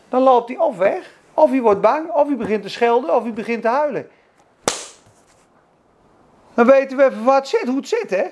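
loud, driving sermon climax; preaching at full force. Acted. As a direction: hammer each option home.

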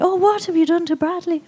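high, eerie put-on voice; like a ghost from somewhere; ghostly voice. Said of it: "that was not an Irish accent".

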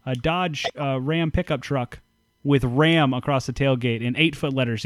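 live reporter on the scene, hand to ear; mock field reporter. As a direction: play a reporter calling in from the field. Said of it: "you got your hand to your ear and you're talking to the microphone".

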